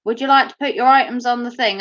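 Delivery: lightly imitated Australian self-checkout; mock Australian machine voice; Australian accent. Self-service machine greets a shopper, lightly Australian. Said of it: "The machine was Australian and it said".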